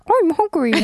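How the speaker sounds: high, loud cartoon dog voice; doggy voice. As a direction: say it like a cute talking dog. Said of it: "Does it say it in a doggy voice?".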